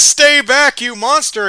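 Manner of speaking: very high, loud terrified yell; panicked shout. Acted. Cop aiming his gun at the zombie, yelling high and loud. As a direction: hold her off at gunpoint, yelling.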